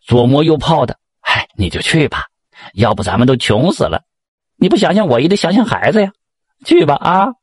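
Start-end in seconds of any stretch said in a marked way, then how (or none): 1.2-7.3 coaxing, increasingly insistent appeal; pleading. Acted. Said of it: "当家的就再三的哀求他".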